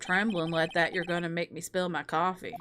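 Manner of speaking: cocky prosecutor. Acted. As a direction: purr the taunt down low. Rival teases nervous lawyer.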